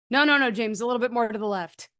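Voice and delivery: lightly voiced priest instructing an acolyte; booming priest. Priest directing an acolyte on a live stream, lightly booming. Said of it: "his big booming professorial voice".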